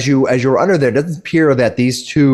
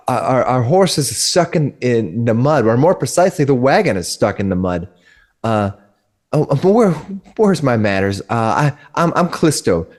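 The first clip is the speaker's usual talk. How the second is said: flustered lady. Acted. Woman NPC introduces herself.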